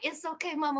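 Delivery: very soft, low reassurance; calm her down almost under your breath; hushed, low-pitched imitation of a soothing guy; soothing homeboy. Voices homeboy soothing mama.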